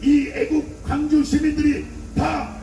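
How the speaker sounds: preaching at full force to a crowd; fiery rally speech. Acted. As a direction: hammer each line out to a street rally.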